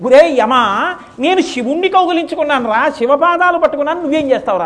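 defiant taunt. Acted. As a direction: taunt Yama fearlessly. Boy taunts Yama. (యముడిని ఎదిరిస్తూ, గట్టిగా, ఎత్తైన స్వరంతో)

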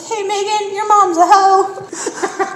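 high sing-song voice, laughing through it; cute villager voice. Retold or imitated. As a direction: play the sweet game character. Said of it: "she'll be like".

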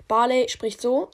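flat robotic monotone; simple robot voice, no melody. Shown as a demonstration. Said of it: "also wie eine Roboterstimme einfach".

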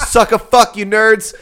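high, loud laughing jab; laughing taunt. Real, not acted. Host laughing and taunting friends as nerds. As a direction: cackle then yell a playful insult. Teasing shout at other show.

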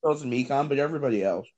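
talking while eating chocolate; words round a bite of chocolate; mouth full. Real, not acted. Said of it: "I'm eating chocolate right now".

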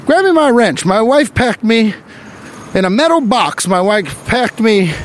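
high, hammed-up old-timey tough guy; 1920s factory worker. Comic imagining a 1920s factory worker, mock gangster voice. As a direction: ham up a "see"-saying 1920s worker. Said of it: "talked like that".

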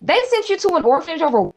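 outraged rant. Retold or imitated. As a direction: rant at her in mock outrage. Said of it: "I said".

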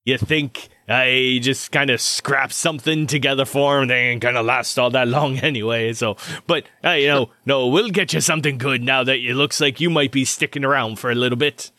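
lightly voiced rambling craftsman; easygoing armorer character. Armorer explaining a botched kit to a recruit, lightly voiced. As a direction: excuse shoddy work casually, then reassure. Game master voices the surgeon.

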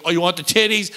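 lightly imitated Long Island accent; New Jersey accent. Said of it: "she's talking like my cousin Vinny".

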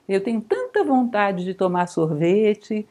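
slow, wistful sigh of a wish you won't act on; longing but resigned; frustrated wish. Shown as a demonstration. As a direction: say it like a craving you'll never satisfy. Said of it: "O que é que vocês entendem nessa entonação?".

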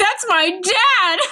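put-on high, drawn-out child's cry; hammed-up tearful protest; mock crying wail. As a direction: imitate a distraught kid wailing. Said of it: "And he's crying".

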